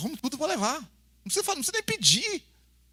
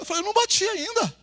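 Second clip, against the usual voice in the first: put-on whiny child; 11 semitones higher than usual. Filho chora de novo.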